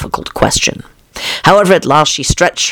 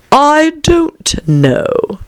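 high, extremely drawn-out caterpillar voice; contrary caterpillar; 13 semitones higher, much slower than usual. A narrator's reading. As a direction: stretch three words as long as they will go.

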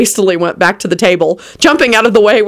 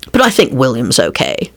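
smiling; 6 semitones lower than usual. A narrator's reading. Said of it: "he smiled".

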